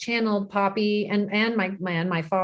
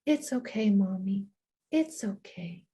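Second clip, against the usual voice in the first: put-on comforting toddler; 5 dB quieter than usual. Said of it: "she just would always remind me".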